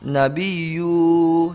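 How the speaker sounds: nabiyu with long drawn 'bii' and 'yuu'; misread long ending. Shown as a demonstration. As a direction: stretch the end of nabiyu slowly. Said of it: "sedangkan di situ tidak ada". (nabiyu dipanjangkan di akhir)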